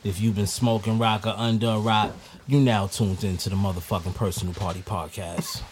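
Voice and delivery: big top announcer intro; ringmaster. Acted. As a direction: welcome the crowd like a ringmaster.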